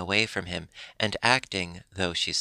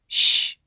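hushing shh; 9 dB louder than usual. A narrator's reading. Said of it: "said he".

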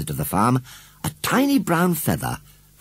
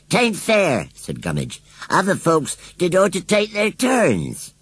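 higher, slower rustic grumble; grumbling scarecrow; 11 semitones higher, slower than usual. A narrator's reading. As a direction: complain like a sulky country bumpkin.

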